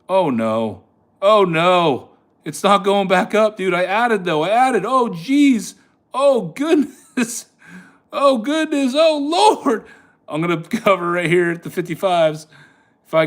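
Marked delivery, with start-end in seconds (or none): 0.1-9.9 high, drawn-out oh goodness; real despair, pitched way up; much higher, louder exasperated groans; dismayed. Real, not acted. Losing trade, groaning.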